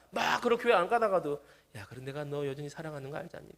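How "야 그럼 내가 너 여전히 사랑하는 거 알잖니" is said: softly voiced reassurance; gentle exhortation, acted. God reassures a straying believer of His love, soft acted coaxing. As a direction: drop to a quiet, coaxing tone. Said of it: "막 이렇게 권면하시는데".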